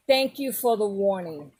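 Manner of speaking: imitating a husband's dull, loveless thanks; no love. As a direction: recite it dutifully, without any feeling. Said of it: "he had, like, no love".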